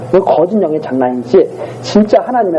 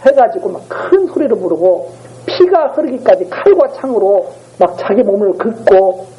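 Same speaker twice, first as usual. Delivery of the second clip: usual speaking voice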